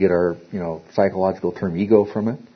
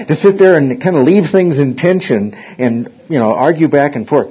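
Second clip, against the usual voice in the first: laughing; 4 semitones higher, 4 dB louder than usual. Real, not acted. Laughing through the joke's point.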